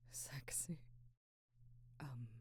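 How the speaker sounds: whispered. Acted. Intimate reply to a compliment.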